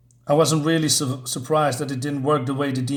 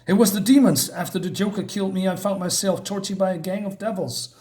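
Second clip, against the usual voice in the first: put-on a touch higher, mildly pained boy's voice; lightly voiced young Robin; 5 semitones higher than usual. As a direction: recall the torture like a hurt kid. Robin's ghost recounts his torture.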